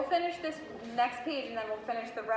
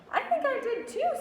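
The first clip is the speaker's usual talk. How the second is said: quivering voice; 14 semitones higher, 4 dB louder than usual. A narrator's reading. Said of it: "said Max in a very quivering voice".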